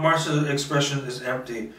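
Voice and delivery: ordinary delivery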